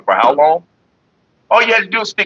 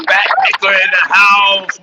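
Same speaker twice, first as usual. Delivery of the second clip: hype shout-out; 4 semitones higher, slower than usual. Real, not acted. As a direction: call the name out like a host. Shouting out a chatter.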